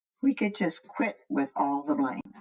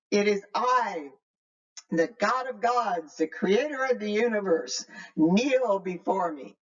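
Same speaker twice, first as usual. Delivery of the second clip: huge booming voice. Acted. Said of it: "and a huge voice fills the cave".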